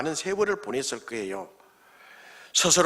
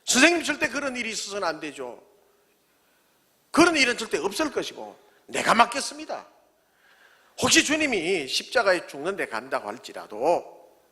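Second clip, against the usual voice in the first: boasting Peter. Retold or imitated. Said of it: "큰 소리 뻥뻥 쳤습니다".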